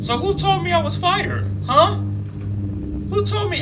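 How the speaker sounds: high-pitched outraged disbelief; incredulous. Real, not acted. Reacting to the story's twist, high incredulous outrage. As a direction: demand who told you, squeaking.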